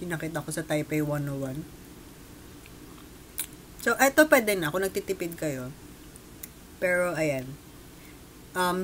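talking while chewing; eating pastry while speaking; mouth full of cake. Real, not acted. Seen 5: Holds bitten pastry, cheeks bulge with food between spoken phrases.

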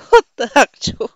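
loud disbelieving exclamation; loud stunned what the actual; shocked outburst. Real, not acted. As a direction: blurt it out in shock. Game goes wrong, disbelief.

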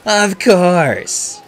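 pleased, expansive yes; delighted. A narrator's reading. Star agreeing to sign an autograph, delighted. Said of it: "smiling delightedly".

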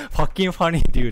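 mock American delivery; imitating his words. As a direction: echo the stranger's line back. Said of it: "って言われたんだけど".

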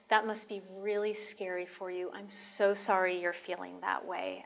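soft, sympathetic reassurance; gentle validation. Shown as a demonstration. Caregiver validating a scared patient's feelings, soft and gentle. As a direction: comfort them, softly and kindly. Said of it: "just validating their feelings".

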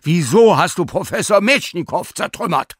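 high, loud furious scolding; scolding the dog. Acted. Sina yells at the dog over the owl, furious. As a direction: tear into the dog who shredded the owl.

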